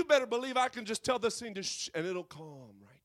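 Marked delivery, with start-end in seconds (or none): 1.6-2.9 hushed, breathy whisper dropping away. Pretend. Jesus hushing the storm, in a whisper.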